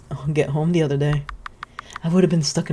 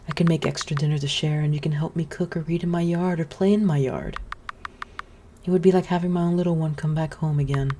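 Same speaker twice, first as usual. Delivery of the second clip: lightly voiced motherly witch. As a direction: coax him gently to come back.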